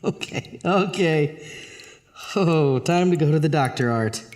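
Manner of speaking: eerie voice whispering from the drain; a sly presence murmuring in the dark; whispery drain voice. Acted. The drain's voice speaks.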